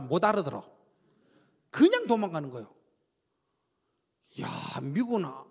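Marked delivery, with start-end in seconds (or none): none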